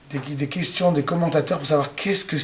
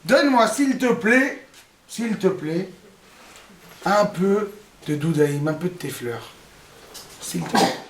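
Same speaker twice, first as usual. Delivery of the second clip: pleading Rachel; slower than usual. Acted. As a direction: beg sweetly for the flowers. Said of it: "elle dit, ah". (supplication aiguë qui s'éteint en chuchotement)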